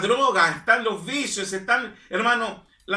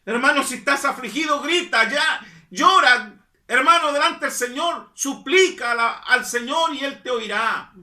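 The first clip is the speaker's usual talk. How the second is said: fervent preaching; 3 semitones higher than usual. Acted. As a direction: push them to cry out to the Lord. Preaching urges crying out.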